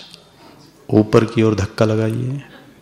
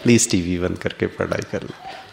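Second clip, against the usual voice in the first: gentle repeat; 4 semitones lower, 4 dB quieter than usual. Shown as a demonstration. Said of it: "उनको कहना".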